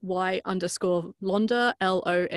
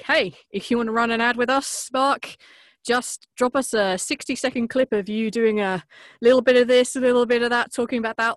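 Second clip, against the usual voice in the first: brighter, higher, louder friendly pitch; chirpy podcast-host invitation; upbeat pitch; 5 semitones higher, 6 dB louder than usual. Retold or imitated. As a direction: sell the ad swap with a cheery lift. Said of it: "and we would say".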